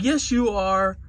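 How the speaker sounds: high, pleading child's cry, acted; imitated crying daughter. Daughter pleading with her smoking father, imitated hysterical crying. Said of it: "she's still crying hysterically".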